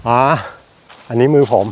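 ordinary talk

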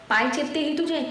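पाय चेपते ही तुझे with each word hit hard and rising in disbelief; पाय चेपते ही तुझे, every word stressed. A narrator's reading. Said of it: "प्रत्येक शब्दावर भर देत".

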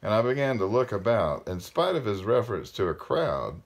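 measured read-aloud with phrase-end pauses; story narration. A narrator's reading. Parent reading a novel aloud to listeners, storytelling.

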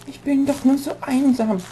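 high, soft lonely creature; lonely monster voice. Pretend. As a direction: whimper it as a sad monster.

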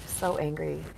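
quietly imitating an ashamed confession; a soft, sheepish admission of anger. Client to the speaker, mildly ashamed and quiet. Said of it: "and they're so ashamed".

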